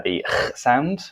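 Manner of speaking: harsh throat-scraped H sound; throaty H demonstration. Shown as a demonstration. Teacher mimicking Spanish speakers' over-strong H, throaty scrape. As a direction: rasp the H from the back of the throat. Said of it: "want to pronounce H's as".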